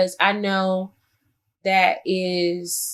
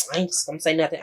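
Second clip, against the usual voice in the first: sullen attitude; 4 semitones lower, 5 dB quieter, faster than usual. Retold or imitated. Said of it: "some people get quiet, like".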